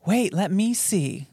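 slow drawn-out. Retold or imitated.

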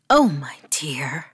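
put-on slow, whispered old granny; granny's voice. Grandmother comforting her fallen grandchild, slow whisper. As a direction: ease it out like a kindly old grandmother. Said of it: "my granny spoke".

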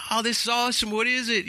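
high, eager fan voice; excited caller. Retold or imitated. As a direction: gush with delight and curiosity. Acting another excited caller.

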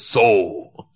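laughing mock Russian accent; a sly Russian cop, half laughing. Cop inviting the student to party, light Russian accent. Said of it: "and he goes".

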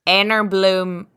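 put-on slow, careful try at a Scottish accent; attempted Scottish accent. Co-host takes a turn copying guest, tentative Scottish accent. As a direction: copy a Scottish accent word by word. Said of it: "wait, let me try it".

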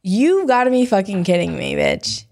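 tipsy, slurring words. Real, not acted. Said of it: "I'm slurring my words".

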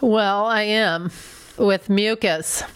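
congested, nasal speech; blocked nose. Real, not acted. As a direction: talk with a stuffy nose. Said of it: "you're holding your nose".

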